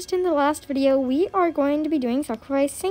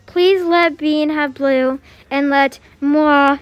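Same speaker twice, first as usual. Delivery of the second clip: solemn pretend prayer; mock prayer. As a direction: recite a silly plea like a prayer. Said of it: "let me pray to the poo poo pee pee god".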